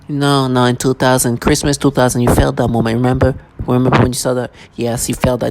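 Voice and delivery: lightly mimicked casual insistence; nonchalant. Mimicking people prompting a memory of Christmas, mildly nonchalant. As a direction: imitate them in an offhand tone. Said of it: "Using whatever nonchalant voice they can".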